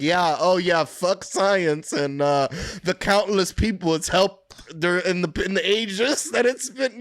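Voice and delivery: drip sarcasm on every word; sarcastic. Retold or imitated. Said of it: "I commented mad sarcastically".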